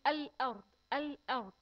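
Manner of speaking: الأرض with the lam clearly sounded; الأرض with a clear, pronounced lam. Shown as a demonstration. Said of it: "اللام في كلمة الأرض لام قمرية".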